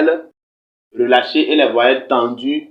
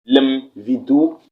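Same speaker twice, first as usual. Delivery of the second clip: slow demo word; much slower than usual. Shown as a demonstration. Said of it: "qu'on appelle limvidou".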